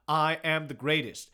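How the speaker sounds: half-yelled, drawn-out boast; mock yell. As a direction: proclaim it slowly in a mild mock yell. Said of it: "He's not yelling".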